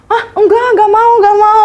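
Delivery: high, loud, nervous laughing no; laughing refusal. Retold or imitated. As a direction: squeal no with an embarrassed laugh. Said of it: "Aku kayak".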